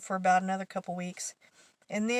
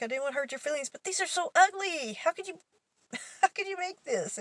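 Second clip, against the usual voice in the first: much higher, laughing exasperated question; laughing disbelief; 9 semitones higher than usual. Retold or imitated. Coworker learns of the prank, imitated much higher laughing disbelief.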